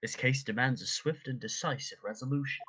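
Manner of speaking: put-on formal British accent; crisp British accent. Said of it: "Back to British".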